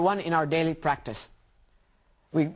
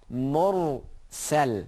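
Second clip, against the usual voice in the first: syllable by syllable. Shown as a demonstration. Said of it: "thick is Ra".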